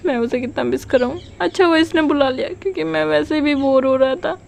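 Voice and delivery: a hint of lonely confession to herself; inner thoughts. Wing hears Wangshi's private thoughts, lightly wistful.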